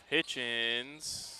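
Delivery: drawn-out s like a snake. Pretend. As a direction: hiss the s like a snake. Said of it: "As I did my best snake impression there".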